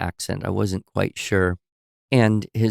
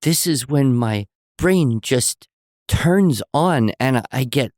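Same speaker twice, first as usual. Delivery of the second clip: put-on little boy; 4 semitones higher, 3 dB louder, slower than usual. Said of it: "And he goes".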